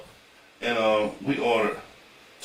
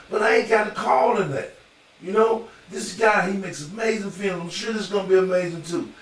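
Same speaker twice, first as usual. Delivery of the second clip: mock exasperated actor in a higher voice; Russell Crowe, fed up; 5 semitones higher than usual. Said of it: "they keep asking him and drilling him".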